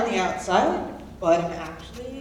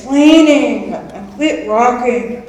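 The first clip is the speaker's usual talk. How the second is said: slow, much louder order to stop; irritated shout; 3 semitones higher, 16 dB louder, slower than usual. Acted. Cellmate fed up with her bunkmate, snapping loudly. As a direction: bark it at her to knock it off.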